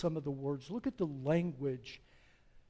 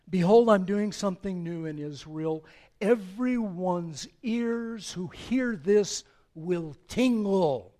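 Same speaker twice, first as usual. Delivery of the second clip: thundering judgment; 3 semitones higher, 10 dB louder than usual. Acted. God pronouncing judgment on the house of Eli, thundering. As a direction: boom it out like a divine verdict. God's words of judgment read.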